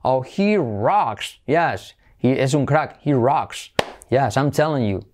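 mock cool dialogue.

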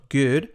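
"Good" with a short relaxed oo; correct pronunciation. Shown as a demonstration. Teacher correcting learners, correct "Good". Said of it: "No es ni good ni got".

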